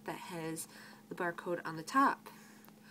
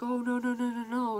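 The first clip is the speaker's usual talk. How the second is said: loud, higher run of objections; mock protest; 4 semitones higher, 7 dB louder than usual. Customer disputing the grape price with the cashier, mock-protesting. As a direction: imitate a customer refusing the price, insistent.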